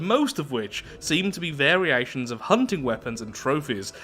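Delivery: storyteller read with deliberate emphasis; event text narration. Acted. Reads event text aloud.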